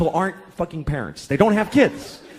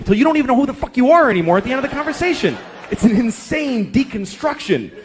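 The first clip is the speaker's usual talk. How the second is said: quick, rising comic exasperation; exasperated fast rant; 5 semitones higher than usual. Real, not acted. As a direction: rattle it off, fed up. Ranting about kid's questions.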